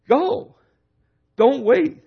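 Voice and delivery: high, ringing call to go; urgent preaching cry. Real, not acted. Preacher urging the congregation to go, in an urgent high call. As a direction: fire up the crowd with a sudden high cry.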